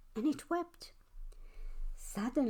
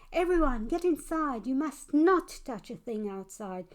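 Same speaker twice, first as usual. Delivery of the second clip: put-on an alarmed child's call that settles by the end; calling out a warning; 2 semitones higher, 3 dB louder than usual. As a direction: shout to everyone to get inside. Child calls warning to street.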